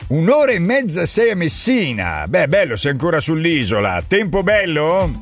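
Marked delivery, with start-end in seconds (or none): none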